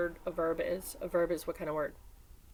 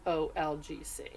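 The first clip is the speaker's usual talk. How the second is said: slow, drawn out options; teacher weighing options slowly; slow choices; slower than usual. Shown as a demonstration. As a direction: lay out each choice slowly. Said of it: "What do you think?".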